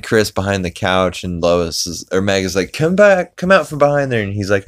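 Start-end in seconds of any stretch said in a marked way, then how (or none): 2.7-4.2 high, louder imitation of an irritated sister; mock annoyed order. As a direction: call someone out of hiding, play-acted. Voicing Meg ordering Chris out.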